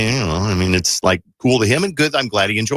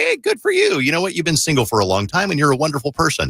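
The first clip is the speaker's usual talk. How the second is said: cheery congratulations; 5 semitones higher than usual. Retold or imitated. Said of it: "I'm like".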